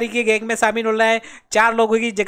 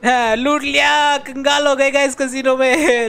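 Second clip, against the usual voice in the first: slow, higher hammed-up lament; mock wailing; 3 semitones higher than usual. Gamer tells viewers the casino cleaned him out, mock wailing. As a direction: wail it out in mock despair.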